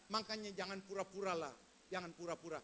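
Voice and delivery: quiet scolding. Acted. Friend drops to scolding low.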